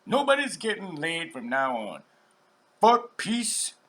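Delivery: fed-up women. Retold or imitated. Women in history ending the wars, lightly voiced angry declaration. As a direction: declare it like a lightly voiced protester, rising to the end. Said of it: "I was like".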